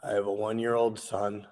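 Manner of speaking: real emotion welling up, voice held in; getting emotional. Real, not acted. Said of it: "I'm getting emotional".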